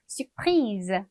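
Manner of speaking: surprise said slowly with the final z sounded, "sur-PREEZ"; teacher models surprise with a clear z ending; feminine French model. Shown as a demonstration. Teacher to class, showing the z sound in surprise. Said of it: "발음이 좀 바뀌어요".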